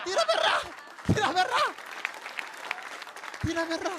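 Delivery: insist, climbing in pitch; indignant. Real, not acted. Repeated indignant denial.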